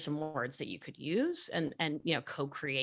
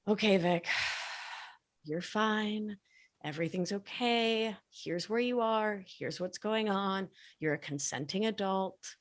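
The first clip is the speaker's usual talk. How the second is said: calming self-talk; 3 semitones higher than usual. Shown as a demonstration. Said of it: "actively use prosody of voice".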